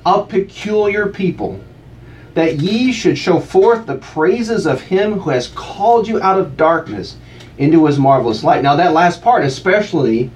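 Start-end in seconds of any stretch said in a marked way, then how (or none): 0.1-8.6 slow, solemn reading of scripture; measured King James recitation. Acted. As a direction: read it like a reverent reader at the pulpit. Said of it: "It reads".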